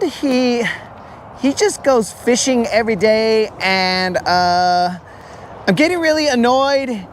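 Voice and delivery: wife calling in to complain about her husband, lightly voiced; a hint of an annoyed wife. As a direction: play a fed-up wife calling a radio show. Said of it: "they're all like".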